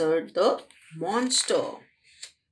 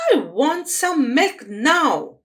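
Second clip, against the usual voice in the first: put-on loud, higher spoilt girl; bratty demand; 5 semitones higher, 6 dB louder than usual. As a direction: demand it like a stubborn child. Bratty girl insists again.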